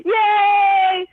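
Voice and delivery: shouted fake cheers; mock cheering. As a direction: cheer like a sarcastic crowd. Scammer mocking cheer.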